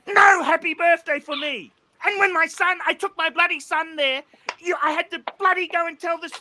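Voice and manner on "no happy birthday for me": aggrieved shout. Real, not acted. Complaint shouted.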